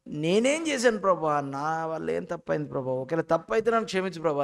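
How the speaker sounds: pretend tearful pleading. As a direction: lightly act out crying in prayer. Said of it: "అని ఏడ్చేయాలి". (ఏడుస్తూ ప్రార్థిస్తున్నట్టు నటన)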